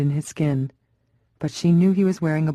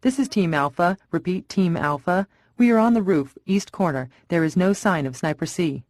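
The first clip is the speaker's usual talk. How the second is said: a tense officer reporting from the roof, a touch raised; tense rooftop report, partly raised; urgent radio call. Acted. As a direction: call the position in over the radio.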